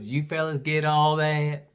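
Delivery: slow Southern drawl; deep Southern accent. Retold or imitated. Gal asks two visitors, mock Southern drawl. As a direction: imitate a local gal's Southern accent. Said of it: "She had a real deep Southern accent".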